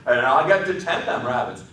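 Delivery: put-on a child savoring his dream; Lenny eager. A narrator's reading.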